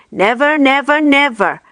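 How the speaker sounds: repeated never, pressed hard; stubborn cry. A narrator's reading. Boggis vowing to the others, stubborn cry. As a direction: refuse flatly, each never firmer. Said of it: "cried Boggis".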